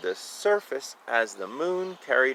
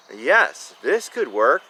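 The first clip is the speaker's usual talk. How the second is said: exclaiming; 6 dB louder, slower than usual. Acted. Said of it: "exclaimed Paul".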